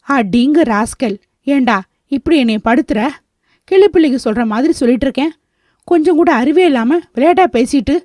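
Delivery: mildly exasperated scolding; irritated. Acted. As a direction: scold him with a touch of irritation. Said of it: "என எரிச்சலோடு சொல்ல". (லேசான எரிச்சலோடு)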